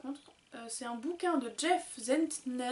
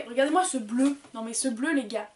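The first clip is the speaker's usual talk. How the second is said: thrilled; 7 dB louder than usual. Real, not acted. Gushing over blue notebook.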